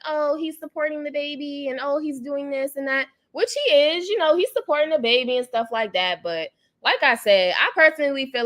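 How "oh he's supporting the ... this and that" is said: higher, softer mock voice of fans; mocking people. Mimicking fans who defend the father, mock voice. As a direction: lightly parrot what people say. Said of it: "a lot of people are just like".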